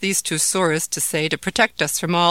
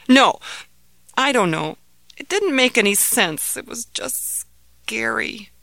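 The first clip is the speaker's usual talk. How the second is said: put-on high, shaken boy's voice; frightened child; 5 semitones higher, 3 dB louder than usual. Boy tells mom the dream was scary, shaken. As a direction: sound small and shaken after a bad dream. Scared child after nightmare.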